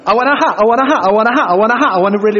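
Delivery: loud, brash mock pop star chant; hammed-up pop singer; pop singer impression. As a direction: ham up a shouty pop singer. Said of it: "I'll do my pop singer impression".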